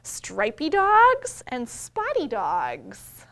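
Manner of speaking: slow, loud storybook reading; reading to children. A narrator's reading. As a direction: read each page out slowly to the little ones. Reading picture book aloud.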